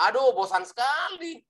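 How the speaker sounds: acted fed-up listener; exasperated boredom. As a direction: burst out bored of the droning. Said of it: "Sangat membosankan ya".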